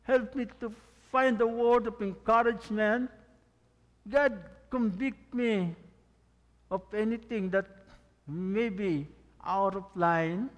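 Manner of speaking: slow, earnest prayer voice, lifted to God. Pretend. Pastor models a morning prayer for the church, earnest and slow. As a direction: pray it out slowly as a model.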